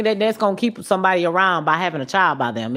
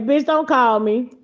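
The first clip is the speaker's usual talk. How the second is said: mock telling off. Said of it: "'Cause I'ma play that shit".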